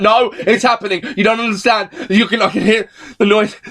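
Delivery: close to tears. Retold or imitated. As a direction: plead to be believed, mildly acted. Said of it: "close to tears".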